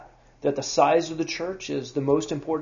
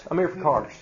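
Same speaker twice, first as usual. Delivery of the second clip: put-on Tennessee accent; faster than usual. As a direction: say it with a Southern Tennessee twang. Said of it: "I just went into my Tennessee accent".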